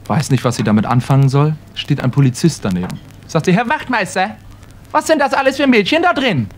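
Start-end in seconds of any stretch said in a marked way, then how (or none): 3.5-6.5 put-on higher, innocent old granny; old lady. Granny asking the policeman, higher and innocent. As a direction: ask like a naive old woman.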